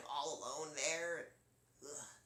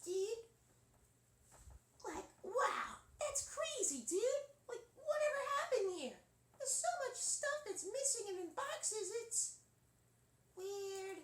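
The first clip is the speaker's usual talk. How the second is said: much higher squeaky surfer dude; slower than usual. Acted. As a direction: chatter like a tiny beach kid. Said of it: "in that voice".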